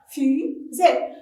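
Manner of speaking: "Fusée" in two separate beats; measured classroom syllable count on "Fusée". Shown as a demonstration. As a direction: split "Fusée" into Fu and sée with a short gap. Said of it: "frappez-le en syllabe".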